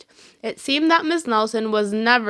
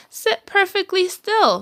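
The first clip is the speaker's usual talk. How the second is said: witchy teacher; 9 semitones higher than usual. A narrator's reading. Strict teacher commanding the class, high witch voice. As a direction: bark it like a witch. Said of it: "said Miss Swamp".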